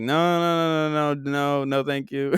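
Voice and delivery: put-on Euro trash accent; fake accent. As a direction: decline in a phony Euro accent. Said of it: "with my fake accent".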